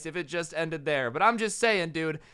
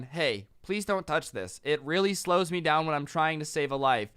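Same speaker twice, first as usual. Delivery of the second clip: calm polite request; 3 semitones lower, 3 dB quieter than usual. Pretend. Rescuer asking someone not to touch boots, calmly. Acts out polite first warning.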